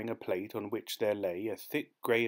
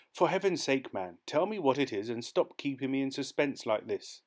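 impatient; 4 semitones higher than usual. Acted. Demands answer in suspense.

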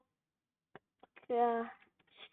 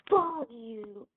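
censored loud retort; 10 dB louder than usual. Shown as a demonstration. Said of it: "are you fucking kidding me right now?".

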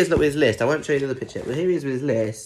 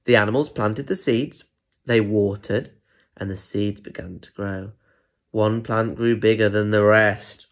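put-on measured read-aloud to small children; story narration. A narrator's reading. Adult reading a picture book to children, story narration. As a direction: read it out clearly, letting each step land.

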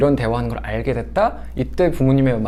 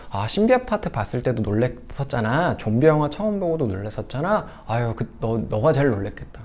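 comforting parent. Shown as a demonstration. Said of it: "처음 봤을 때로 돌아가 주시는 게 좋습니다".

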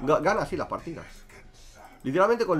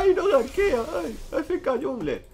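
very high, loud mocking whine; exaggerated whiny imitation, jeering at complainers; mock crying complaint; 10 semitones higher, 4 dB louder, slower than usual. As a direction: wail it like a crybaby teammate, drawn out. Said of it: "que me estén llorando".

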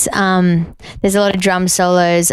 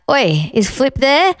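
imitated phone caller; 6 semitones higher, slower than usual. Acts out callers on home phone.

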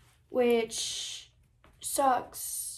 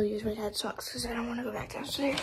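whispering. Real, not acted. Hushed aside after finding sock.

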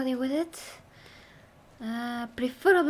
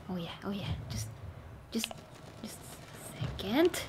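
whispering; 2 semitones lower, 7 dB quieter than usual. Real, not acted. Aiming carefully.

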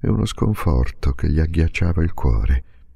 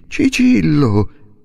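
slow, louder, higher cry of the name; cry of surprise; 9 semitones higher, 4 dB louder, much slower than usual. A narrator's reading. Father finding his son in the ward, crying out loud. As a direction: call out his son's name in shock. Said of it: "gettò un grido anch'egli".

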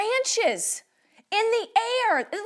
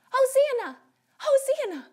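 mild, higher-pitched cheer; shout demo; 5 semitones higher than usual. Shown as a demonstration. Teacher wants to hear children shout, mild high cheer. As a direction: call it up high for the children to echo. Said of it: "we're gonna shout Hosanna".

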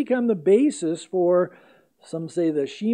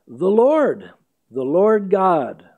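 proclaiming loudly; 6 dB louder, slower than usual. Acted. Preacher booming God's own proclamation to Moses. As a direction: ring out the name, loud and slow. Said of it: "passed before him and proclaimed".

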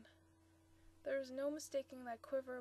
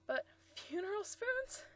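much higher, amused bellow; roaring with amusement; 9 semitones higher, 5 dB louder than usual. Acted. Bob roaring with amusement at his fiancée's idea. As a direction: roar it out, tickled. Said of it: "he roared with amusement".

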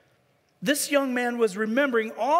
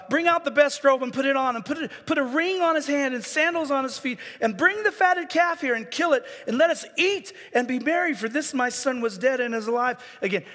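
joyful father; 5 semitones higher than usual. Acted. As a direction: shout the orders with a father's joy. Joyful father's command, read aloud.

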